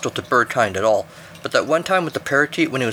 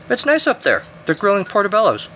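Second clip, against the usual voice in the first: very high, lofty bird voice; breezily superior, pitched way up; haughty eagle; 9 semitones higher than usual. A narrator's reading. Eagle back from summit reports to climber, haughty.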